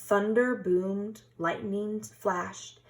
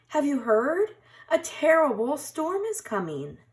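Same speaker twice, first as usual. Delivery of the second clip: small high-pitched mouse voice, louder; high squeaky mouse; 9 semitones higher, 5 dB louder than usual. A narrator's reading. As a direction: call out like an anxious little mouse. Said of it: "cried Mouse".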